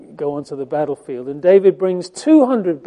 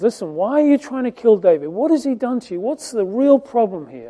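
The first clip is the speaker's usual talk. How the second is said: quick, higher-pitched pleading questions; urgent protest; 6 semitones higher than usual. Retold or imitated. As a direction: retell a son challenging his father, fast and raised. Son pleading with father for David.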